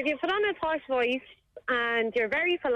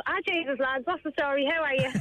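informal, lively greeting to someone familiar; casual greeting to friends; 3 semitones higher than usual. Acted. Realising it's somebody she knows, casual matey voice. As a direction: drop the formality for a matey hello. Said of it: "I realise it's somebody I know".

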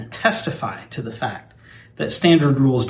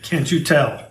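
stiff, forced robotic delivery. Acted. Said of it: "You're using robotic voice".

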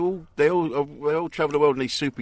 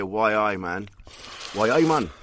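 put-on Geordie accent; slower than usual. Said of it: "when they do the Geordie accent".

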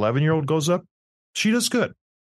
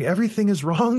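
put-on higher, telling the kids it's all wrong; mock-dismayed verdict on their work; exasperated; 8 semitones higher than usual. Dad scolding his kids about their math, exasperated. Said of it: "I'm like".

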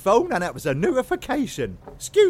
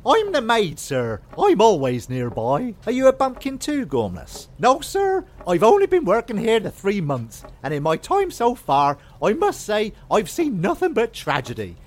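a light, eager servant voice; chirpy maid listing her chores; eager maid character; 3 semitones higher than usual. Acted. Maid answering her master, lightly put on.

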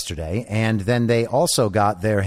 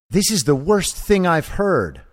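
put-on small child voice; 6 semitones higher than usual. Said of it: "that's the voice I'm gonna use".

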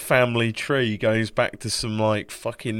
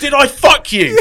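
laughing; 14 dB louder than usual. Retold or imitated. Laughing mock of granddad asking.

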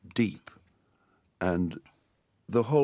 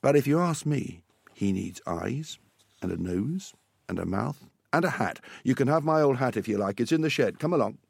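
lightly voiced dad, coming round; a hint of a helpful father; kindly dad; 4 semitones higher than usual. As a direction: offer help, lifting into an invitation.

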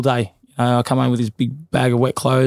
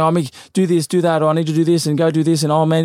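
higher, flustered corner instructions; a trainer babbling orders in a panic; 4 semitones higher than usual. Retold or imitated. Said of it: "if you're saying".

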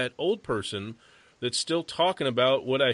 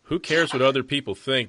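loud, fired-up challenge; worked-up rhetorical question; 3 semitones higher, 6 dB louder than usual. Real, not acted. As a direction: throw the question out with real heat. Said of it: "I'm all fired up now".

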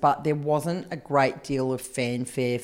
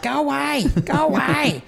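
annoyed shooing; 10 semitones higher than usual. Retold or imitated. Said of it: "I'm like".

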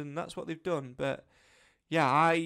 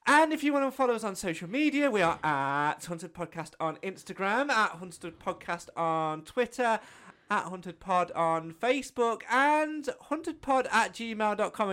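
imitating co-host; 4 semitones higher, 4 dB louder than usual. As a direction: do your partner's intro voice. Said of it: "I'll do you then".

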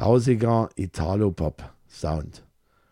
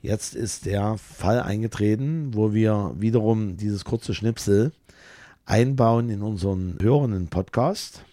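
put-on booming kids show opener. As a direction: address the audience like a show host. Ansage an Zuschauer und Hörer. (feierliche Moderatorenansage)

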